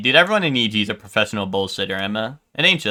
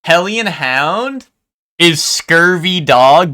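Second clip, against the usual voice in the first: slow pirate name; 5 semitones higher, 5 dB louder, much slower than usual. Pretend. Inventing pirate names.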